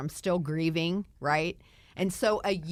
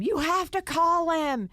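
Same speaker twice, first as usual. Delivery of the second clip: high insistent mock-scream from friends; excited urging; 10 semitones higher, 3 dB louder than usual. Girlfriends urging her to phone him, high and excited. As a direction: push her hard to make the call. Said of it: "they're all screaming".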